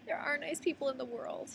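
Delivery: high, grateful sigh of a line; moved, high-pitched mock swoon; touched relief. Acts out her touched relief.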